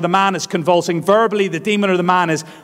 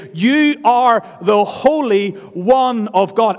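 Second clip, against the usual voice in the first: slow, higher, louder demon cry; 7 semitones higher, 5 dB louder, slower than usual. Acted. Demon names Jesus's divine identity, slow raised demon voice. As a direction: drag it out as the demon naming Jesus. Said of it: "look at what this demon knows".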